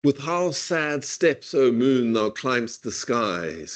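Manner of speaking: "with how sad steps, O moon, thou climbst the skies" forced into an even da-DUM iambic pulse; iambic beat. Shown as a demonstration. Professor demonstrating the metre to class, mechanical iambic beat. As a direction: tick off each iamb evenly, slightly slowed. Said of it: "One can force it quite contentedly ... into iambic pentameter".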